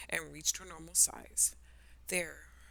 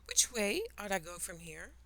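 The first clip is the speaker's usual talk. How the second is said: timid; 4 semitones higher than usual. Acted. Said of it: "she said timidly".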